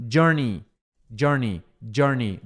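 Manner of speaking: "journey" as JUR-nee, clearly separated repeats; "journey" said carefully, ending "nee"; pronunciation model. Shown as a demonstration. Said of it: "é tipo assim".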